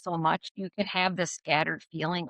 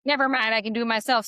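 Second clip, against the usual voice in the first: brisk dismissive; 4 semitones higher, 4 dB louder, faster than usual. Retold or imitated. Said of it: "maybe you would be like".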